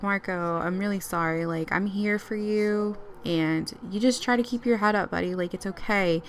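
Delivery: softened, sympathetic voice; consoling. Acted. Mom cheering up upset dad, softly consoling. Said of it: "cheer up Marco and talk to him".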